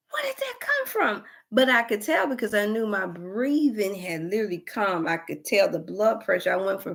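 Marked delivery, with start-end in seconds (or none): 0.1-1.2 high, breathless whisper. Retold or imitated. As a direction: whisper it in disbelief. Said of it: "And so I'm like".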